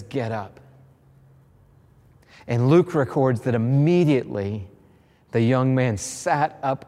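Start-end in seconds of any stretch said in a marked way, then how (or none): 0.0-0.6 low, soft command; hushed command. Acted. Jesus quietly telling the dead boy to rise, hushed. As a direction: say it almost under your breath.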